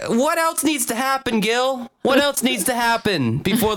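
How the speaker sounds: high-pitched, laughing through words; can barely get it out for laughing. Real, not acted. Laughing mock of Gilbert.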